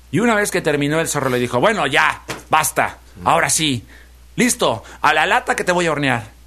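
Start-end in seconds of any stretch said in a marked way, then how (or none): 1.6-6.4 mildly bossy, impatient fox. Acted. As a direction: cut it short and give the order. Fox impatient to roast piglet. (zorro impaciente y mandón)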